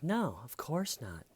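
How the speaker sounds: high mock-innocent denial; melodramatic. Girl in a melodrama denying it, high imitation. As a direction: overplay it like a movie melodrama. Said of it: "director that always does melodrama".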